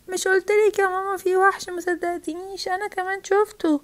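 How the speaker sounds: put-on high-pitched child's protest; insistent child. Child tells mum she saw the monster, insistent.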